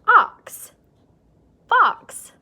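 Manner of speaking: "fox" rings out high and loud; excited blend. Shown as a demonstration.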